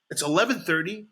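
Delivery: high, whiny mock wife; mocking his wife's high complaining voice. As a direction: nag like an exasperated wife. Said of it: "that's the way my wife sounds".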